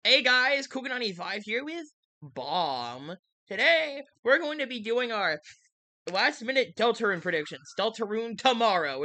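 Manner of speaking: hyped-up YouTube intro host; YouTuber voice. Acted. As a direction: open it like a big channel video. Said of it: "Why are you doing a YouTuber voice?".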